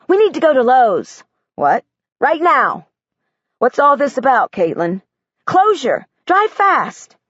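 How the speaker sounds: urgent and eager. Acted. Girl urgently pushing dad to Lowe's.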